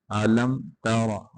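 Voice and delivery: अलम तरा with a full, heavy ra. Shown as a demonstration. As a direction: thicken the ra of तरा. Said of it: "रा को मोटा करेंगे".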